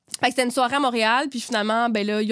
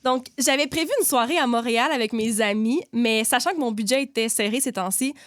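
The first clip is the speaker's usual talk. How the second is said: measured read-aloud of a listener's anecdote; light narrator's delivery; story reading. A narrator's reading. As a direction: read the submitted story out neatly.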